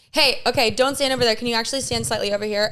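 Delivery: direct, matter-of-fact American director's note; American giving notes. Shown as a demonstration. American director moving an actor on stage, matter-of-fact American accent. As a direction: give a plain-spoken note in American English. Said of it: "if an American person was giving you a note".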